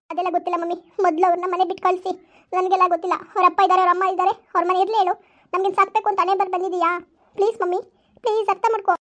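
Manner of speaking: sulky, tearful protest; a child arguing she is unloved; resentful daughter. Acted. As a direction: daughter complaining to mother about her dad. Daughter demands they leave.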